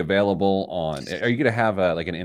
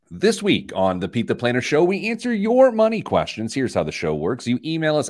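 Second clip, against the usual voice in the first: radio host intro; 3 semitones higher than usual. Acted.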